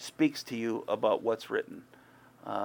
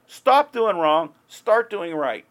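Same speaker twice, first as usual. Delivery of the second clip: slow, loud, high demand; God's loud command; 8 semitones higher, 9 dB louder, slower than usual. Retold or imitated. Preacher voicing God's final order, slow and loud. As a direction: hammer each word of the command. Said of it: "he concludes with this".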